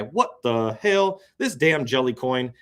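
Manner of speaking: drawn-out shock; surprised. Real, not acted.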